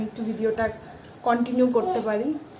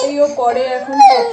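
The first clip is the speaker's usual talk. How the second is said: laughing; 12 semitones higher, 13 dB louder than usual. Real, not acted. Laughing while showing the baby.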